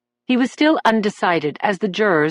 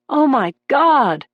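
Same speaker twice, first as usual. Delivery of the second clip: moan; 6 semitones higher, slower than usual. A narrator's reading. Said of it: "Someone in the gallery moaned".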